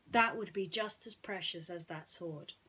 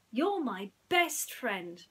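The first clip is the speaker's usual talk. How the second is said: slow, louder mouse voice, heartfelt; Timothy, tender; 2 semitones higher, 7 dB louder, much slower than usual. Acted. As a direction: let each word land for his friend.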